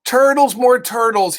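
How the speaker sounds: a loud, high royal bellow. Acted. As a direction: bellow the order to the pond. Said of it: "he bellowed and brayed".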